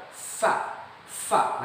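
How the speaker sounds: FA with airy f; short fa, air escaping over the lip; correct letter sound. Shown as a demonstration. Teacher showing how the letter is pronounced, correct fa. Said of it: "Cara pengucapannya adalah".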